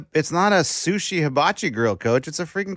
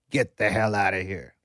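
mock indignant; 8 semitones lower, 5 dB quieter than usual. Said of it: "That's what they did".

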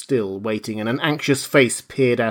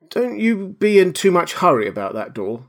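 anxious; 8 semitones higher, 4 dB louder than usual. Acted. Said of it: "said the anemic cabman anxiously".

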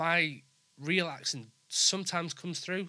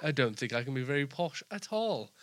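posh voice. Pretend. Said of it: "That's perfect".

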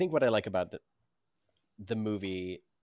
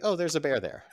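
mock surprise; 9 semitones higher, 7 dB louder than usual. Family reacts to Paddington arriving.

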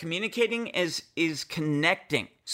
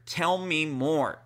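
slow, gentle tell me more; gentle invitation; slower than usual. Shown as a demonstration. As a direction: invite her to open up, slowly. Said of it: "three words that will completely turn your relationship around".

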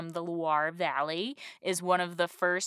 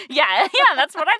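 laughing; 11 semitones higher, 11 dB louder than usual. Real, not acted. Laughing agreement.

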